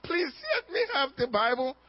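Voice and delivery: mock begging, voice lifting mid-plea; hammed-up, tearful plea; pleading. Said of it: "start pleading".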